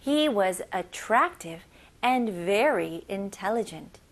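slow phrase-by-phrase model; slow repeat-after-me. Shown as a demonstration. Teacher leads the class in slow repeating. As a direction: say it slowly so the class can follow. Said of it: "큰 목소리로 같이 따라해 볼게요".

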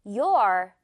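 "Your" as one deliberate syllable, you and are merged; low, firm "Your" for repeating; model pronunciation. Shown as a demonstration. Teacher has learners listen and repeat, modelling the contraction. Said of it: "듣고 따라해 주세요".

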